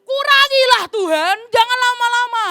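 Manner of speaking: pleading dog. Acted. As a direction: beg to shorten the sentence. Dog begging God for fewer years.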